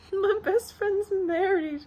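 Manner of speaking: high, drawn-out squeal, close to tears; tearful joy. Real, not acted. Maid of honor on her best friend marrying, high and tearful. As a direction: squeak it out slowly, choked with happiness.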